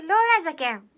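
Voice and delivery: loud, playful Hiroshima-dialect declaration. Pretend. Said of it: "広島弁タイムスタートです".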